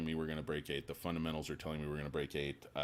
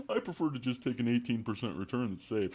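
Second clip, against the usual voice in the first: higher, louder put-on old-timer voice; old bear impression; 7 semitones higher, 4 dB louder than usual. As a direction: play a fearful boomer investor.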